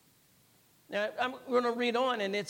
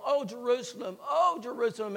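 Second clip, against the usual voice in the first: pained cry; 3 semitones higher than usual. Retold or imitated. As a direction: retell a pained cry, with restraint. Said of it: "and he cried out".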